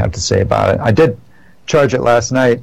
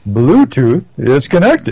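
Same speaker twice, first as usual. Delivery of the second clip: slow, hammed-up British announcer voice; fake British accent; 2 semitones higher, slower than usual. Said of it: "a Chinese woman doing a British accent".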